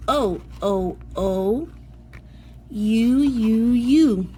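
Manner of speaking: each letter name said three times, clearly; vowel drill. Shown as a demonstration. Teacher leading class to repeat vowel names, clearly. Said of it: "I want you to repeat them with me".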